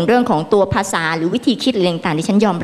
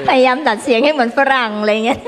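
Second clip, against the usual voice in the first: giggling higher while teasing; playful teasing through giggles; laughing; 4 semitones higher than usual. Real, not acted. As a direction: keep laughing through the jab. Continues teasing.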